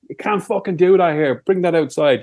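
ordinary delivery

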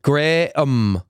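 Graham said the Northern Irish way, a short flat "Grem"; Graham in a light Northern Irish accent. Shown as a demonstration. Showing friends how Graham is said, in a Northern Irish accent. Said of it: "the only way to say his name is in the Northern Irish accent".

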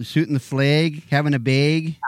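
stretched upper Midwest vowels; upper Midwest accent. Shown as a demonstration. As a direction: show off upper Midwest A sounds. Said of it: "a little upper Midwest".

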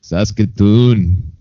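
"Saskatoon" drawn out slowly, Canadian style. Shown as a demonstration. Cohost slowly echoing Saskatoon in a Canadian accent. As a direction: stretch "Saskatoon" like a Canadian would. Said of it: "Say it with a Canadian accent".

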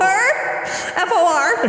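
F O R said letter by letter, slowly; spelled out. Shown as a demonstration. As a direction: spell out F O R, one letter at a time. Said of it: "spelling the word out".

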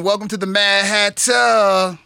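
drawn-out show opener, rising in pitch; show announcer. Real, not acted. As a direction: announce the show, stretching the words. Host opens the morning show.

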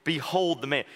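Behold tossed off, light and quick; dismissive pagan. Retold or imitated. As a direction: shrug it off like a scornful Roman. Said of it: "the meaning of the pagan".

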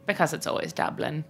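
put-on terrible Irish accent. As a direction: drop the punchline quietly in a fake Irish accent. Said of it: "speaking in this terrible Irish accent".

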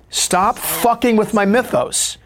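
high, slow, exasperated protest; exasperated outburst. Retold or imitated. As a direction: push back, drawing out every word. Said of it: "I wanted to punch him".

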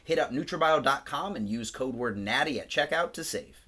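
scripted podcast ad read; polished promotional read; sponsor ad read. Real, not acted. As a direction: read the sponsor copy to listeners. Reads the sponsor spot.

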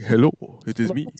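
put-on made-up Dracula accent. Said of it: "Dracula accent?".

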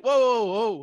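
loud, high halting call; mock calling back. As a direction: imitate a star stopping someone walking off. Acts star calling kid back.

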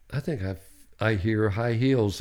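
soft, low murmur; hushed. Retold or imitated. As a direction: say it under your breath, slowly. Quoting himself listening at door.

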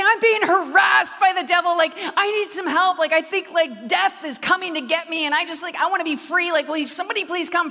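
hammed-up desperate call for prayer; mock panicked plea. Preacher phoning friends, mock frantic plea. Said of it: "I say".

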